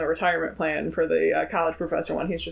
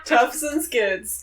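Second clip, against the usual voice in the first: amused repeat; 5 semitones higher, much slower than usual. Real, not acted.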